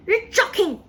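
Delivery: high, loud disbelief; alarmed protest. A narrator's reading. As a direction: cry out in disbelief. Frightened grandmother protesting to Wonka.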